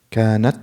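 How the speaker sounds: كانت held at ت, then released as air; delayed puff of air after كانت; hamis step by step. Shown as a demonstration. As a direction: stop on ت in كانت, then let breath go. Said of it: "So how do I do that then?".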